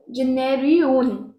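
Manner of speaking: जेनेरियन repeated slowly on its own; isolated syllables. Shown as a demonstration. Teacher drilling the ending जेनेरियन slowly. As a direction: isolate जेनेरियन, slow and deliberate. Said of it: "इसका pronunciation आप देखो".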